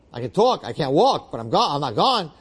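insistent protest. Acted. Injured man insisting to the medics he's not gone, insistent protest.

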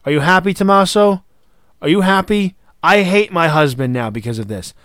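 imitating a tearful wife begging her husband; mock tearful pleading. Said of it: "comes in on the verge of tears".

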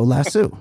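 "Lasso" said as lass-OO; "Lasso" ending in oo. Shown as a demonstration. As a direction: end "Lasso" on an oo sound. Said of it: "L A S S O".

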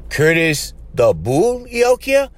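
slow, drawn-out disbelief; slow, incredulous asking; stunned question. Retold or imitated. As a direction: let each word of the name sink in. Stunned question on seeing the key.

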